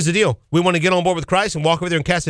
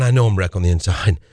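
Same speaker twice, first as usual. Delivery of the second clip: inner confession; 10 semitones lower than usual. Retold or imitated. Voices a listener's inner confession.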